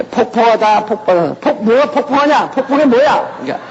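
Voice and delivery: high, laughing puzzled questions; mock bafflement at a strange word; puzzled listener. Preacher acts his first puzzled reaction, high and laughing. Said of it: "처음 들을 때는".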